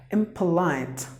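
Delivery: "impolite" as im-puh-lite with a weak puh; schwa middle syllable. Shown as a demonstration. Teacher modelling the correct word, reduced puh syllable. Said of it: "it's p".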